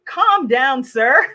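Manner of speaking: mock condescending employee to a complaining customer. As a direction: talk down to the angry customer.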